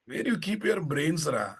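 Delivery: sharp annoyed rebuke; scolding. Real, not acted. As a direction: snap at the student. Teacher scolding student.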